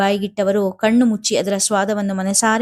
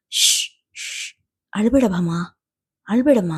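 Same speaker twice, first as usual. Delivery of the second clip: soothing hush. A narrator's reading. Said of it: "ತಲೆ ನೇವರಿಸಿದರು".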